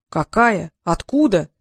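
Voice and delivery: two short, puzzled questions; baffled, innocent surprise; surprised. A narrator's reading. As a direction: ask in mild astonishment. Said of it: "удивился Трикс".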